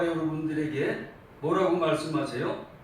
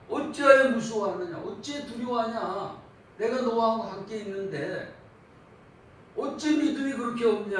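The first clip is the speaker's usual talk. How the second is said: loud, higher reproach, slowing on the second question; stern rebuke; 5 semitones higher, 4 dB louder than usual. Retold or imitated. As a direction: rebuke fearful followers with authority. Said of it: "제자들 책망하신 게 이겁니다".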